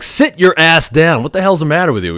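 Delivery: retold stern telling-off; angry command. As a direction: bark him back onto the table. Tech scolds patient, runs in.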